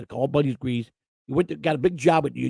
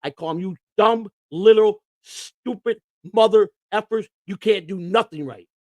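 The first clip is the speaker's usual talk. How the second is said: mock angry yelling at assistants; 3 semitones higher than usual. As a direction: chew out the clubhouse crew. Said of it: "I go out there every day".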